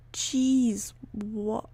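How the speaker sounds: whispered what in shock; startled whisper. Real, not acted. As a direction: breathe it out, startled. Startled by stream glitch.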